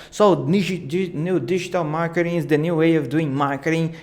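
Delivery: fast, rushed presenter line; talking fast. Shown as a demonstration. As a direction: rattle it off like a fast-paced promo. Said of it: "I'm talking too fast".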